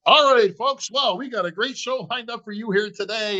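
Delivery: a hint of a stage emcee opening the show, bright and up; lightly voiced emcee welcoming the crowd; mock show host. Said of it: "It's like one of those".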